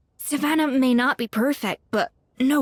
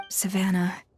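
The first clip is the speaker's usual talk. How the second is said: barely voiced, as if wounded; whispered name; 3 semitones lower than usual. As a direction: whisper her name, disappointed. Escoffier confronts Savannah quietly.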